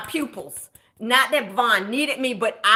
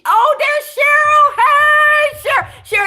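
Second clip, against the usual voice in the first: loud, high call to a friend across the room; 10 dB louder, much slower than usual. Real, not acted. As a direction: shout her name out, delighted. Spots friend Cheryl in chat.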